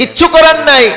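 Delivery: emphatic, forceful shouting.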